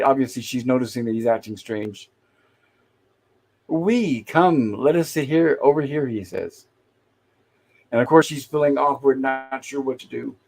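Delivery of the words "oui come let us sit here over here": slow, lilting mock French accent; horrible French accent. Gilligan inviting Marianne to sit, mock French accent. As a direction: imitate a bad French suitor, stretching the words. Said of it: "a very horrible French accent".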